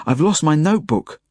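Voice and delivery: high, urgent cry; panicked yell. A narrator's reading. Boy waking in panic over his notebook, yelling. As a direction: call out the loss in alarm. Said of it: "I yell".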